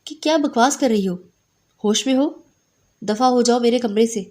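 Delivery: storyteller voicing a furious girl, moderately loud; angry outburst. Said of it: "غصے سے پھٹ پڑی".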